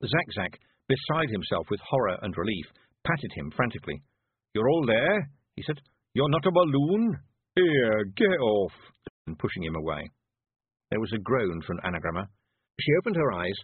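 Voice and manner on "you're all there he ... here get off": high, loud desperate begging; frantic pleading. Acted. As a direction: plead for the boy, fast and scared. Zack Zack relieved.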